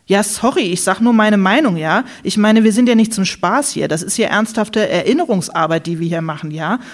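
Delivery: heated self-defence. Acted. Ulla defends herself, heated.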